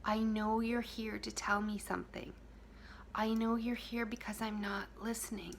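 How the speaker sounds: soft, hushed, loving words; tender reassurance. Acted. Speaking lovingly to your own pain, hushed. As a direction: whisper love to the hurting part. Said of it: "and if you say".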